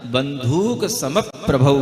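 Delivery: बंधुक सम प्रभौ with the stress on बंधुक; slow, stressed बंधुक सम प्रभौ; slow model reading. Shown as a demonstration. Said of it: "कैसे पढ़ना".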